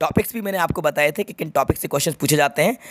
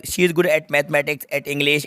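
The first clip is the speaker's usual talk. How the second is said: slow reading; much slower than usual. Shown as a demonstration. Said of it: "याद रखना good के साथ at आएगा".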